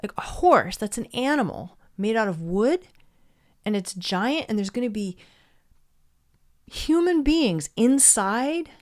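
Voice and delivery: acted disbelief, pitch jumping up on questions; incredulous. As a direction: play the scoffing listener, drawing out key words. Acts out townspeople's disbelief.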